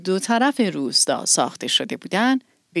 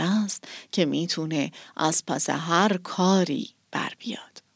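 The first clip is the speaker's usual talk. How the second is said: kindly; 2 semitones lower, 3 dB quieter than usual. Acted. Village elder blessing the orphan girl, soft and kind. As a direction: speak gently to encourage her. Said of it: "با خوشرویی گفت".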